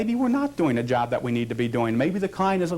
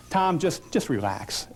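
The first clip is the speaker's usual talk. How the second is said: soothing tone; slower than usual. Shown as a demonstration. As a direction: coax him to let his shoulders fall. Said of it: "I'll even say it with a tone in my voice".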